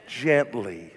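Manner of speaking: low and soft, drawn out; hushed gently. Acted. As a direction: breathe the word gently. Preacher answering his prompt.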